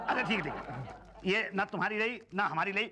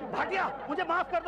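mock pleading; 11 semitones higher than usual. Told to apologise.

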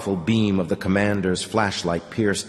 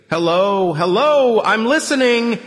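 much higher and louder, urgent into the phone; loud whispered exclamation; 14 semitones higher, 6 dB louder, slower than usual. A narrator's reading. Old man calls into the phone, urgent exclamation. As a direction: call down the line urgently. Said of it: "he exclaimed in a loud whisper".

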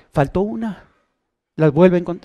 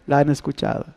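la han escuchado repeated much softer and lower; quiet echo; 5 semitones lower, 8 dB quieter than usual. Acted. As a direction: let it fall away as an echo. (repetido en voz baja, como eco)

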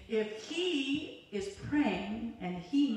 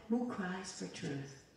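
slow, hushed, lower delivery; the Lord's quiet question; 4 semitones lower, 8 dB quieter, slower than usual. Retold or imitated. Preacher quotes the Lord speaking to her, hushed and slow. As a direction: let it drop soft and measured.

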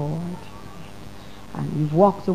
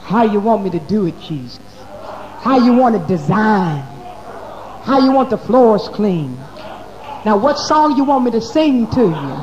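eager servant prayer; 3 semitones higher, 4 dB louder than usual. Retold or imitated. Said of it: "treat him as the Lord".

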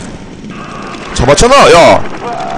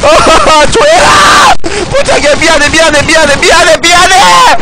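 high, frantic shouted apologies; panicked pleading; 8 semitones higher than usual. Real, not acted. Gamer begging and apologizing under attack, panicked pleading. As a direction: beg at a high pitch, repeating in a panic.

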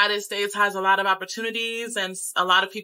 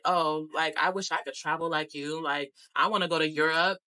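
mocking his envy; 4 semitones lower than usual. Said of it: "he just had an attitude about it".

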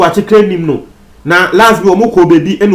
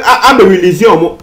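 laughing. Real, not acted. Laughs retelling police releasing robbers.

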